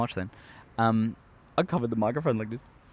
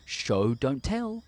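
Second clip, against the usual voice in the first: slow, sing-song classroom recital; mock teacher drilling the rule; drawn-out schoolteacher maxim; much slower than usual. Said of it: "it would be like".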